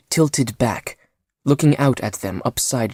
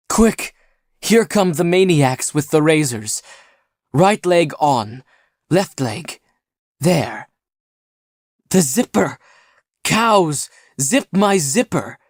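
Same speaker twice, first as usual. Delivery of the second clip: hurried high babble, lightly voiced; injured man babbling orders to friends; 5 semitones higher than usual. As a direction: tumble out the orders, higher. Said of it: "babbled Vamenos".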